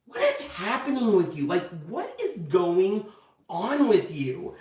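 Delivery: mock exasperated questioning. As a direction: imitate a fed-up husband, stretching the words. Husband retold as exasperated.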